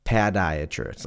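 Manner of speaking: "podiatrist" as PAD-iatrist; "podiatrist" with first syllable changed to "pad". Shown as a demonstration. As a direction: say "podiatrist" opening like "pad" in pad thai. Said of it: "Like pad thai".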